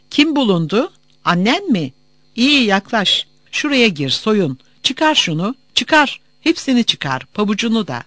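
curt guard giving orders. Acted. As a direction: order a detainee through a search. Guard interrogates and orders a search. (sert emirler veren görevli)

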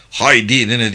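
a sharp, cursing outburst of anger; angry curse. Acted. The captain curses on hearing the wounded were left behind, angrily. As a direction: swear out loud at the news. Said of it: "diye sövdü".

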